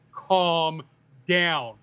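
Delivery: a man calming a hysterical woman, lightly imitated; patronising, firm calm down; condescending calm down. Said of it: "like a man says it to a hysterical woman".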